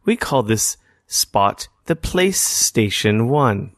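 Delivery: slow, lightly imitated tutorial voice; mock-serene instructor taking their time; calming guide. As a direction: explain it slowly, like a soothing game guide. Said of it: "very calming voice".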